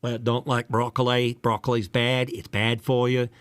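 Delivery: lightly voiced presidential impression; George W. Bush. Shown as a demonstration. Voice actor attempting a past president's broccoli line, in a slightly off impression. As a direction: try a rough American president voice. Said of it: "a George W. Bush doing".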